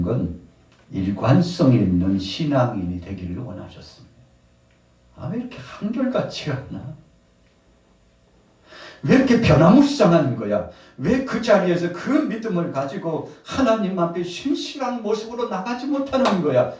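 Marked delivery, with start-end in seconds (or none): 5.2-16.7 high-pitched acted scolding; exasperated reproach. Jesus reproaching inconsistent disciples, high and exasperated. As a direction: demand an answer in mounting reproach. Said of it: "제자들을 보고 책망하셨는데".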